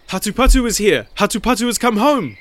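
high, loud excited cry; crying out news. A narrator's reading. Villagers cry out that the lost boy is home, high cry. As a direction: shout the news through the village, pitched high. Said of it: "was the cry".

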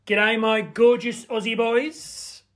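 a cheerful but badly faked Australian greeting; hammed-up amateur Australian accent; dreadful Australian accent. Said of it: "that was a dreadful attempt at an Australian accent".

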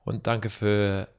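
speaking German. Shown as a demonstration. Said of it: "Go on then".

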